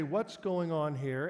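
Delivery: slow, measured dad demand; slow stern question. Retold or imitated. Dad planning what to ask his boys, slow and stern. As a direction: drag it out like a stern father. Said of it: "and I'm gonna say".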